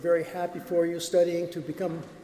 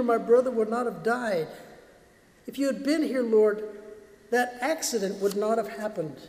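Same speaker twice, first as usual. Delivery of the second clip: grieving lament; 3 semitones higher than usual. Retold or imitated. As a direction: voice the anguish of a grieving believer. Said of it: "cried out with our grieving friend Martha".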